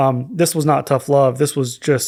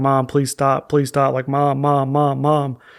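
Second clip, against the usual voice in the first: put-on desperate, pleading child voice. Retelling how the children in the back seat begged their mother: imitating children begging. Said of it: "we're just begging her".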